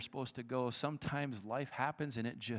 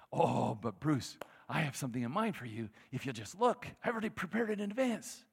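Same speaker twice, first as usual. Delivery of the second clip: gentle God; 3 dB louder than usual. Acted. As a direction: coax Bruce lovingly. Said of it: "answering Bruce".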